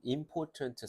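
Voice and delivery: important as im-POR-ent, final t barely released; English pronunciation. Shown as a demonstration. Teacher showing the t is just air, English style. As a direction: say important with no vowel after the t. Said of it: "뱉는 소리".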